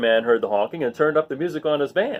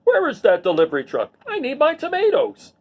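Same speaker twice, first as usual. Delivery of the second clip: yelling; 10 semitones higher, 3 dB louder than usual. A narrator's reading. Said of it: "stomped out onto the sidewalk and yelled".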